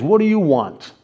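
"What do you want?" as a pointed question; added inflection. Acted. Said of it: "I put the inflection on it".

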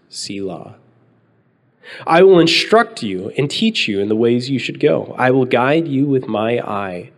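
scripture reading. Acted. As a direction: read the verses like a preacher at the pulpit. Reads the psalm aloud.

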